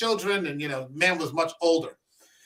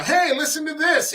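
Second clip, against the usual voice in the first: put-on kid pestering dad; 11 semitones higher, 4 dB louder than usual. Kids pestering dad at home.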